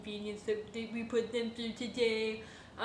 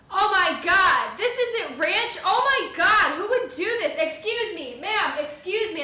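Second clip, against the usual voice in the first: high, loud, slow outraged shriek; retold yelling; 8 semitones higher, 9 dB louder than usual. Old lady yelling at the waitress over fake ranch. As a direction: shriek it like a furious old customer. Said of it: "start yelling".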